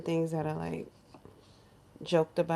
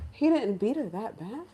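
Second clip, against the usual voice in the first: questioning echo at near-usual pitch; incredulous echo; 3 semitones higher than usual. Retold or imitated. Teller reacting to the excuse about violence, incredulous. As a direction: repeat the excuse in measured disbelief. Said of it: "my jaws dropped".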